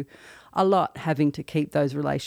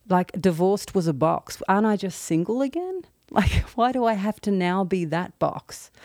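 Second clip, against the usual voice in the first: higher-pitched, mildly indignant retelling; grumpy protest; 4 semitones higher than usual. Retold or imitated. Woman at the dentist objecting to the box, mildly grumpy. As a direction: recall a touch of grumpy indignation. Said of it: "so grumpy".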